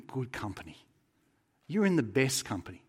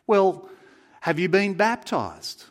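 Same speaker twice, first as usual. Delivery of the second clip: louder, higher official questioning; insistent interrogator, pitched up; supervising angel; 6 semitones higher, 8 dB louder, slower than usual. Acted. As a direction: press on with the interview, slowly and pointedly.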